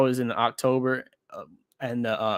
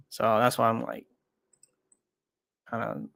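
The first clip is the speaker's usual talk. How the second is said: stuttering; 3 semitones lower, 4 dB quieter than usual. Real, not acted. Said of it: "stuttering here".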